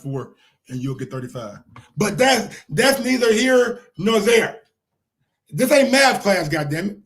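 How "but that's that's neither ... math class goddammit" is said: loud, fed-up rant; annoyed outburst. Real, not acted. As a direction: snap at the chat, raising your voice. Host snaps at math talk.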